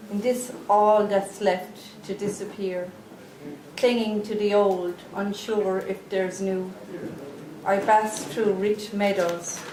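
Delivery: measured poem delivery with spaced phrases; poetry reading. Real, not acted. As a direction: recite it gravely, pausing between lines. Reads poem about ill mother.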